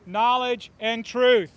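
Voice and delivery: slow down and punch truth; stress on truth. Real, not acted. Testifying to scouting board, stressing truth slowly and loudly. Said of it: "I emphasize the word truth".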